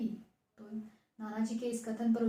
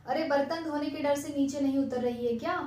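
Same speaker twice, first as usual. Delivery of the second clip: teasing; 2 semitones higher than usual. Acted. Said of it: "भैया उसका मजाक उड़ा रहे थे".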